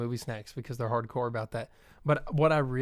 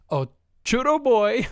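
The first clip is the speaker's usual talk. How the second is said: loud, high, slow call; 10 semitones higher, 10 dB louder, slower than usual. Retold or imitated. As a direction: call across the theater. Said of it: "being like".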